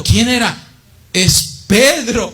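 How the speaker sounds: put-on high, slow excited girl's voice; lightly voiced servant girl, breathless with news; excited Rhoda. Preacher voices Rhoda telling the praying brothers, high and excited. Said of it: "le dice a los hermanos".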